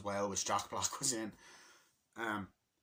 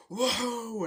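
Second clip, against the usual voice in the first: high amazed whoa; 12 semitones higher, 8 dB louder than usual. Retold or imitated. Koopas gaping at the sight, high loud whoa. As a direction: squeal of wonder, pitched way up.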